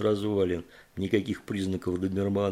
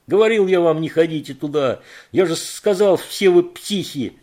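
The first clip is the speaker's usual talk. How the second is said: high, loud, ranting roar; loud rage; furious yell; 6 semitones higher, 6 dB louder than usual. Acted. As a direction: scream the told-you-so. Кейт yells at them again.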